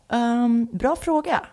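lightly voiced dude, pitch lifting on the question; dude employee. Smoothie guy answering a customer's question, lightly mimicked dude. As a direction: imitate a stumped dude behind the counter. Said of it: "en sån här duty kille som bara var så här".

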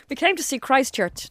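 unplaceable, badly faked Russian accent; botched Russian accent. Joking about poisoners posing as tourists, botched Russian accent. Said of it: "Don't know what accent that was".

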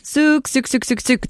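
"suk, suk" called high and falling, fading; calf calling sound. Shown as a demonstration. Host demonstrating how she calls calves, high sing-song. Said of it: "That's what I do".

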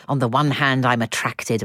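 low, hammed-up swooning; playful mock desire; mock attraction. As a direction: drop low as if tempted. Agony aunt feigns attraction.

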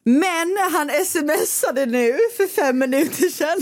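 high, slow, drawn-out announcement; spring the news on her; excited reveal. Real, not acted. Excited reveal of new text.

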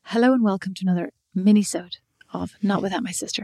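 calm, even intro voice. Real, not acted. Sister teases her calm podcast intro voice. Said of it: "with that very calm voice?".

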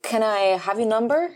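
slow mock American asking for her number; smooth pickup line. The stranger asking for her number, mock smooth. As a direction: drawl it like a smooth player. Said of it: "Han bara".

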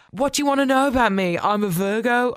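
a quick teasing send-up of the line; mocking quote. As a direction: parrot his cringey line with a light sneer.

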